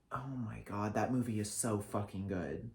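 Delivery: breathless whispered awe; hushed reverent whisper about the film; awed whisper. Real, not acted. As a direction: whisper it like it's sacred.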